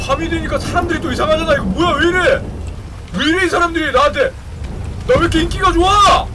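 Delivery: high, loud frantic questions; rising panic. Real, not acted. Gamer panicking as night zombies close in. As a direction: panic as the crowd rushes in.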